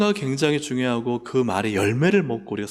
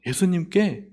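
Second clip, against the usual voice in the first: ordinary talk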